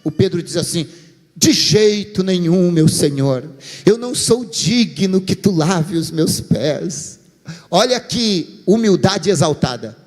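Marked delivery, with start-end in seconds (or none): 1.3-7.2 mock humble. Peter refusing with false humility.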